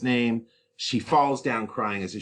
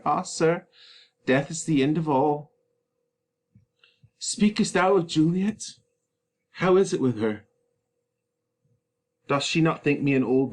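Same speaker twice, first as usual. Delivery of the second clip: anguished Romeo; 4 semitones higher than usual. Acted.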